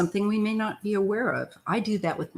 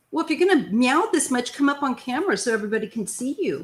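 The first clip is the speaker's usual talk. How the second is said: talking to the cat; 6 semitones higher, 3 dB louder, faster than usual. Real, not acted.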